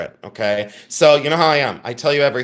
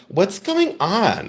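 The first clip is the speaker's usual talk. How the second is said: slow, drawn-out baffled question; mock bewilderment; 4 semitones higher, much slower than usual. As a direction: imitate a puzzled newcomer, a bit higher. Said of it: "be like".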